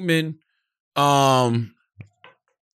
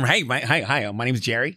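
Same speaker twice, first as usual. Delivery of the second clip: mock TV white guy; 4 semitones lower, 4 dB quieter than usual. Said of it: "every white person I ever met sounded like the white people on T V".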